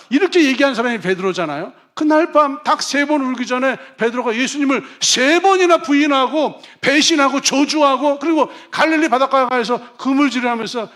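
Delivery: loud, fervent sermon voice; booming pulpit preaching; full-force preaching. Acted. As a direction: preach it out to the congregation.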